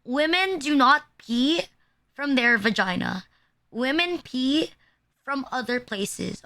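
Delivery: deliberate, spaced-out phrasing; measured, emphatic lecturing. Shown as a demonstration. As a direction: spell it out in short chunks for a class to repeat. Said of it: "say it with me now".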